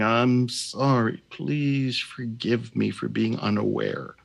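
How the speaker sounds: slow, sincere prayer; heartfelt, sincere. Shown as a demonstration. Healer speaking the prayer for the group, slow and heartfelt. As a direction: say it from the heart, unhurried. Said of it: "say it with feeling".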